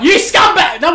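loud, high shout of "You scumbag!"; furious outburst at a bad shot; angry yell. Real, not acted. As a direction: yell at the game in outrage. Yelling at game play.

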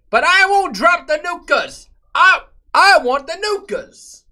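put-on squeaky high childish whine; high whiny voice. Whiny high voice about nukes.

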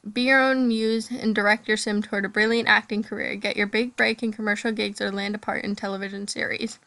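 breathless from reading on and on; running short of air; out of breath. Real, not acted. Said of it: "Oh my God, I'm out of breath".

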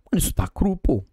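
hushed shocked whisper. Real, not acted. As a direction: whisper it in disbelief. Whispered shock at raw meat.

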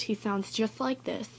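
lightly voiced lisping squid character. Shown as a demonstration. Showing viewers how Squiddly Diddly sounds, with a lisp. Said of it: "he has a lisp".

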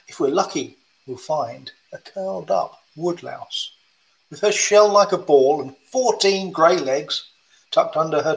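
lilting picture-book rhyme; reading to children. Acted. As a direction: read it to a room of kids. Reads woodlouse rhyme.

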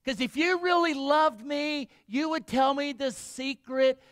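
high, loud wailing complaint, half-hammed; a hammed-up tearful wife begging her husband; mock sobbing plea. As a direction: play the weeping bride, pleading and whining. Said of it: "she starts sobbing".

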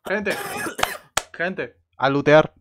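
slow, loud drawn-out call to loot; rally the group, stretching it out; llamada alargada. Real, not acted. Llamando al grupo a saquear. (llamada lenta y fuerte al grupo)

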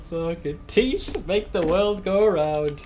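slow, drawn-out repeat of the idiom; quoting the orc idiom. Retold or imitated. Gamer slowly quoting an orc saying he loves. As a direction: savour every word of the orc saying. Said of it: "That one always kills me".

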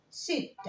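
"ست" with silent p, audible t; pronounced final t. Shown as a demonstration. Teacher showing how seven is said, sounded t. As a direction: skip the p and finish "ست" on a t. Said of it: "بس بنطق الت".

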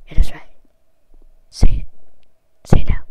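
loud, insistent command; loud, bossy insistence; loud demand. Real, not acted. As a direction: order it, loudly. Commanding the bot.

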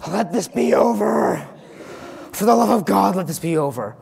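hammed-up anguished groan; bored despair. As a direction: beg for it to end, melodramatic. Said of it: "I go".

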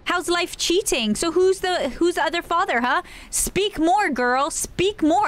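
high-pitched playful provocation, pushing her to answer; mock taunting. Taunting a game character aloud.

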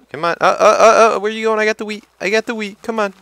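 very high, sing-song coax. Real, not acted. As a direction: lure it like a pet. High-pitched coaxing of cow.

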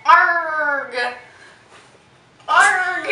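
playful mock pirate cry; pirate growl.

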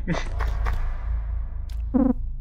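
soft, voiceless laugh; breathy laugh. Real, not acted. Player realising they were bleeding, breathy laugh.

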